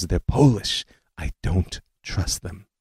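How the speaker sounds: put-on slow, soft, suspicious Eastern European accent; great aunt's thick Eastern European accent, slow and wary. Great aunt distrusting the young visitors, slow wary Eastern European accent. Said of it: "in her thick Eastern European accent".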